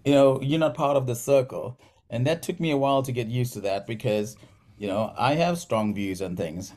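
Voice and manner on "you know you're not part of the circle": high, pushy imitation of people drawing a line; mock exclusive attitude. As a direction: lift the pitch and play them as closed off. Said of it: "people were like".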